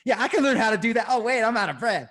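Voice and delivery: high, fast goofy voice; mocking goofy voice. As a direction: lampoon a lazy cyclist who only reads. Mocking armchair cyclist.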